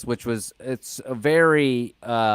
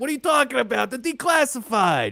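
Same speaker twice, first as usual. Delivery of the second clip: put-on Italian-sounding politician voice, higher pitched; 12 semitones higher than usual. Mocking a politician's excuse about declassifying: Italian-sounding Trump impression. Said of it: "in your impression of Trump, he's Italian?".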